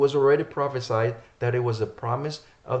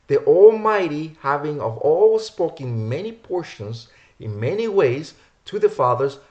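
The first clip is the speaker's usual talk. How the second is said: emphatic scripture reading; 3 semitones higher, 4 dB louder than usual. Acted. Preacher reads Hebrews to listeners, emphatic scripture reading. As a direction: declaim the verse, pitch lifting on weighty words.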